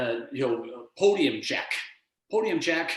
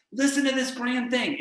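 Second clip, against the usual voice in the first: grandiose coach; 9 semitones higher than usual. Acted. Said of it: "my coaching style isn't like".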